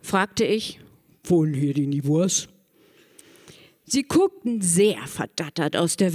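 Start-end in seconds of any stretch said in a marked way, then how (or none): 1.2-2.5 low, disguised Santa voice; deep voice. Retold or imitated. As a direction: drop the voice to fool the family. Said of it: "Mit tiefer Stimme".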